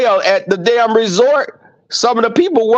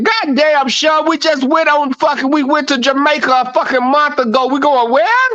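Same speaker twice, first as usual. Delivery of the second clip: mock outraged shout; 7 semitones higher than usual. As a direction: yell it like you just got back from Jamaica. Acted quarrel with Sean.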